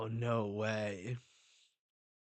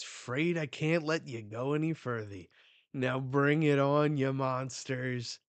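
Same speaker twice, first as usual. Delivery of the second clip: a lightly voiced villain, louder on the challenge; mock villain taunt; 3 semitones higher, 4 dB louder than usual. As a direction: taunt them, then call them on.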